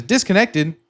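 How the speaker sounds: "Disconnected." read flat with a falling end like a system voice; alert message. Retold or imitated. Quoting NinjaTrader's warning to viewers, flat system voice. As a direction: say "Disconnected." as a calm automated announcement. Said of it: "I think that's what it is".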